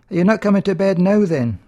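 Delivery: a new wife calling her groom to bed; bride calling the groom. Acted. Bride asks again, louder.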